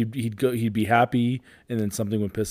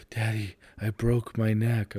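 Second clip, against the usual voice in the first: put-on whiny child; slower than usual. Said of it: "whining, crying".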